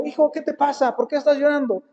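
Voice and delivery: a parent's frightened concern; worried parent. Retold or imitated. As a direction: rush in alarmed, asking what's wrong. Worried parents rush to crying son.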